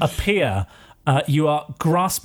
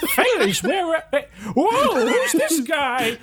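high, silly creature voice; comic skeleton; 12 semitones higher, slower than usual. Acted. Skeleton arriving to face the training dummy, high comic surprise. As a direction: squawk in startled confusion.

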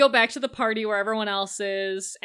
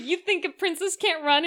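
higher-pitched princess challenge; acting out the princess; 6 semitones higher than usual. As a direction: playfully mimic a defiant princess. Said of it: "she's like".

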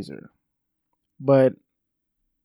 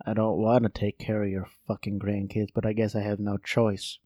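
resentful grandma; 3 semitones lower, 5 dB quieter than usual. Pretend. Voices the resentful grandma replying.

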